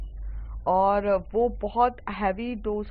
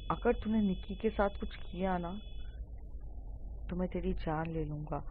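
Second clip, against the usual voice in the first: low-key, restrained menace; a quiet warning, held back and weighted with pauses; angry threat; 3 semitones lower, 4 dB quieter than usual. Acted. Friend warning Rajeev not to harm Nikki, in understated anger. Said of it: "उस समय निशांत का बहुत गुस्सा होता है".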